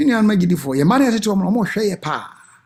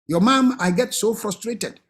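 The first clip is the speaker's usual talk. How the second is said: confiding parent; 3 semitones higher than usual. Acted. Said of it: "nka mɛka akyerɛ ɔmo sɛ".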